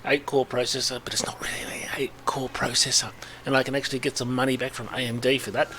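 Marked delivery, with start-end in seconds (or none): 1.0-3.1 whispered aside; whispering. Acted. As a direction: hush it like a secret. Conspiratorial aside about his CPU.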